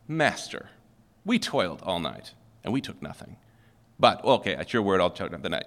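a lightly put-on silly boy voice, sulky. Preacher mocks Peter answering Jesus, lightly voiced silly boy. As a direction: play it like a bratty kid grudgingly agreeing. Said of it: "I could use my silly boy tone of voice".

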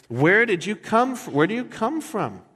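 high, loud startled questioning; alarmed Pilate. Retold or imitated. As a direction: blurt it out in alarm. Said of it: "Pilate's now freaking out".

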